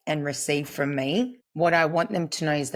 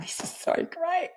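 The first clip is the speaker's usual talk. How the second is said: very high, delighted little squeal; mock delight. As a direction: act out thrilled encouragement, pitched way up. Her delighted reply to crying clients.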